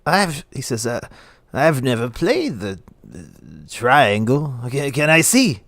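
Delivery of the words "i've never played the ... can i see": lightly voiced tipsy curiosity; a touch of drunken hesitation; drunk town speaker. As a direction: stumble slowly over "triangle". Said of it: "He's obviously drunk as shit".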